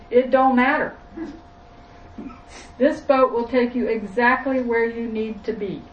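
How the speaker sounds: lightly put-on southern boat captain; loud, folksy southern accent. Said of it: "I have to put on a southern accent".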